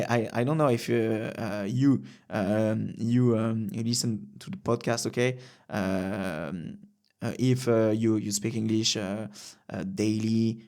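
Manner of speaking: halting English with a French accent. Shown as a demonstration. Podcaster tries out his rusty English with a French accent. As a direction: grope for the English words, French accent throughout. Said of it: "c'était juste pour voir un petit peu si j'avais encore des bases".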